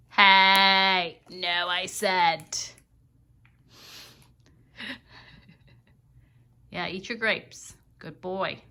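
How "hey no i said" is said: louder, slow firm warning; stern slowed scolding. Real, not acted. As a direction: stop him with a firm no. Scolding again.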